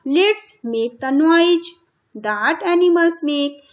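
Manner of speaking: very slow, word by word for the class; slow dictation. Shown as a demonstration. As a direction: spell it out slowly like a teacher. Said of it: "अब animals की आवाज को आपको बताना है". (बहुत धीरे, शब्द-शब्द बोलकर)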